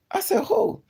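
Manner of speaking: high, squeaky mock-innocent question; high innocent who. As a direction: play dumb in a high squeak. Retold fight, feigning innocence.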